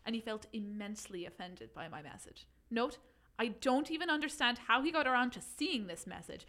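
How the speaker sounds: put-on reading in a light Irish accent; a hint of Irish accent. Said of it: "do you think I could do it in Irish?".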